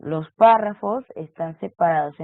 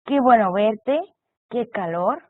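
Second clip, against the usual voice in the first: exclaimed; 2 semitones higher, 3 dB louder than usual. Shown as a demonstration. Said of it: "denotar sorpresa".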